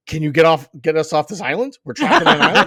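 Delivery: loud pleading through laughter; giggling stranded-islander plea; laughing mock plea. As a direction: beg to be rescued while cracking up. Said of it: "and not be like".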